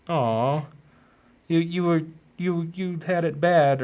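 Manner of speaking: a hint of a high, soothing parent voice; gentle parent figure. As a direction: coo it like a kind parent to a child.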